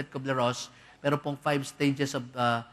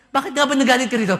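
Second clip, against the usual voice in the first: mock question; 9 semitones higher, 10 dB louder, faster than usual. Quick mocking question.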